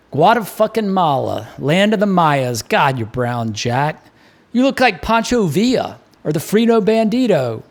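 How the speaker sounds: lightly voiced Baltimore barman; hearty bartender, a hint of Baltimore; bartender Mick. Mick teases Jack.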